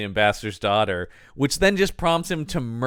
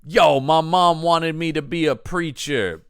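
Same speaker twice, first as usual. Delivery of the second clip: slow, lightly voiced thug speech; hammy villain monologue; 5 semitones higher, slower than usual. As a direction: ham up the bad guy's boast. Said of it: "full-on villain monologue from our bad guy".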